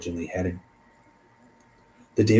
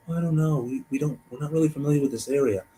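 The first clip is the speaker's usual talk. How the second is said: lightly voiced reluctant friends, higher; hesitant friends; 5 semitones higher, faster than usual. Friends unsure about an unfamiliar area, mildly hesitant. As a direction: play mild hesitation in a raised pitch.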